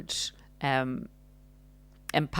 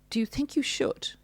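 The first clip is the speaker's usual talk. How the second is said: higher, with a questioning rise on you; mock narcissist, rising doubt; 10 semitones higher, 4 dB quieter than usual. Narcissist undermining partner, patronising rising question. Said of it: "Implying it's not a good decision".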